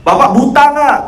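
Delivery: mock-angry ustadz grilling the man; retold harsh scolding. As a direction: fire it at him like a scolding preacher. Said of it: "Ustaznya langsung ngegas".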